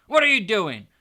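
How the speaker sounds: loud, high sneering jeer; mocking Uncle Vernon. A narrator's reading. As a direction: taunt the boy with a loud joke.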